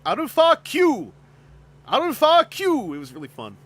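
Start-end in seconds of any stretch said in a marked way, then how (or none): 0.0-1.1 loud high cartoon call; shouting name. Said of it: "constantly hear people say". 1.9-2.9 loud high cartoon call; shouting name. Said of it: "constantly hear people say".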